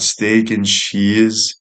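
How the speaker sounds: very slow, dreamy craving; savoring. Real, not acted. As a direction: roll the words like tasting them. Savoring the lunch idea.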